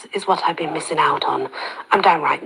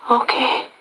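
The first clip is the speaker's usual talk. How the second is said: whisper; 7 semitones higher than usual. Acted. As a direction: barely whisper the word. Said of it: "I only whisper a simple word".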